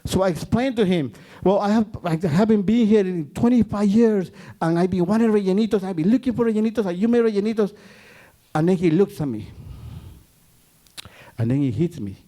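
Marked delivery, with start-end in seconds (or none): 1.4-7.7 tearful plea. Retold or imitated. Tearful explanation to the chef.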